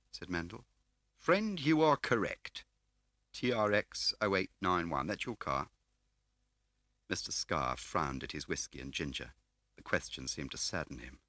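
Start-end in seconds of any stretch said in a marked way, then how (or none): 1.2-5.7 smarmy dealer playing grand; oily fat car dealer. A narrator's reading. Scar's voice held.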